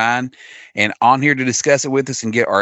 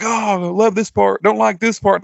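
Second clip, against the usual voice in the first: mocking voice; 11 semitones higher than usual. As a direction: parody their back-and-forth. Mocking friends' online chatter.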